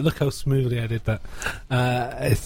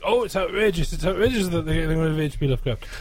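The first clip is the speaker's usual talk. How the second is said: mock outraged internet commenter; 4 semitones higher, faster than usual. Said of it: "idiots on the internet have, like".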